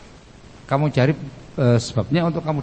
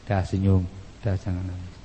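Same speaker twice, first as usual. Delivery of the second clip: comforting husband; 7 semitones lower, 4 dB quieter than usual. Acted. Husband comforts wife who smiles.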